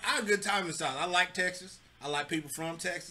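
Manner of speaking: put-on Southern lilt. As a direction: slip into an easy Southern accent. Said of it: "is that your Southern voice".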